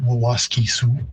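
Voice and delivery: "Wawaske Sioux" with a long "kee"; Woods Cree pronunciation. Shown as a demonstration. Linguist showing the host the Woods Cree form, carefully pronounced. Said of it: "And in Woods Cree".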